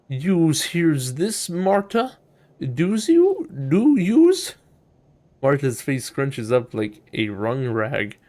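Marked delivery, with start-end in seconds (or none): 0.1-4.5 rising, incredulous questions to yourself; alarmed Marta. Acted. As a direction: voice climbing high on each question. Marta alarmed, asks herself about haunting.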